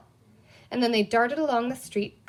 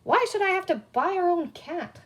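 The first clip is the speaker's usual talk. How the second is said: cross; 8 semitones higher than usual. A narrator's reading. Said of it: "he told himself crossly".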